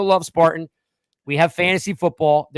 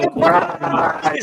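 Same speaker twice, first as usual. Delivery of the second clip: high-pitched, gleeful surprise shout; excited, high pop-up reveal; playful surprise; 11 semitones higher than usual. Pretend. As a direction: jump out with a squealed gotcha. Pops back after seeming to leave.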